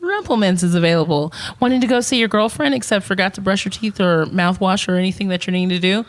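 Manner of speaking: mock TV commercial voice; ad read. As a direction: pitch it like a cheesy ad. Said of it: "quick commercial on Rumplemans".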